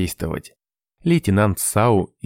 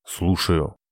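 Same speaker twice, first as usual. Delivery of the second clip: grumble. A narrator's reading. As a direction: answer sulkily under his breath. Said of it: "буркнул Комет". (недовольно буркнуть, ниже обычного)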